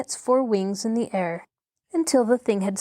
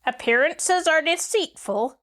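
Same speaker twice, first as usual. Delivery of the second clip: earnest; 7 semitones higher than usual. A narrator's reading. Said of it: "said the Wogglebug earnestly".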